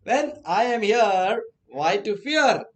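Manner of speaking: punchy filmi bravado; hero swagger. Shown as a demonstration. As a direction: deliver it like a cocky film hero. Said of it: "Like a South Indian hero".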